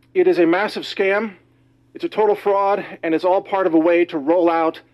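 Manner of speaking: out of breath after lifting weights. Real, not acted. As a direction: talk a bit out of breath. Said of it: "I'm a little bit out of breath here".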